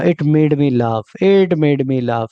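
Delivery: very slow, carefully spaced model sentence; slow teaching demo. Shown as a demonstration. Teacher slowly repeats a model phrase for students. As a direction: drag each word out for learners to copy. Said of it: "इसने मुझे हँसा दिया".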